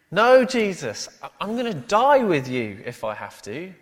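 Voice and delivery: loud emphatic protest, high-pitched at the start; Peter. Acted. Peter coming back at Jesus, emphatically. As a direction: insist at full voice, punching "No" and "die". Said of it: "Mark says, emphatically".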